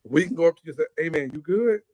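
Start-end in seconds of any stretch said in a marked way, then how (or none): 1.0-1.8 casual question, asking if he is all right; friendly check-in. Shown as a demonstration. Greeting a friend to ask if he's all right, casual concern. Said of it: "Are you all right?".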